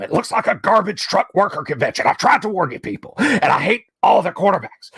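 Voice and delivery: a hint of Alex Jones, grumbling rant about Tennessee; Alex Jones rant impression. Doing Alex Jones for the stream, a mild ranting impression. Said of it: "as read by Alex Jones".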